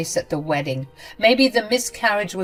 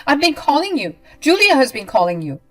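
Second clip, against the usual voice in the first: furious yelling; 6 semitones higher, 8 dB louder than usual. Acted. Ramona yelling at narrator.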